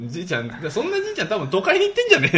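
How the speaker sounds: laughing loudly while joking. Real, not acted. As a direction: laugh your way through the line. Joking about the old man bit.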